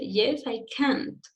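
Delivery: slow answer with weight on the final "can't"; stress on the answer. Shown as a demonstration. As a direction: lean on the last word, "can't", as an affirmative can. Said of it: "My emphasis is here".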